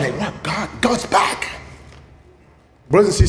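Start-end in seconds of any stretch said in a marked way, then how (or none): 0.2-1.5 awed hush. Acted. Moses awed whisper.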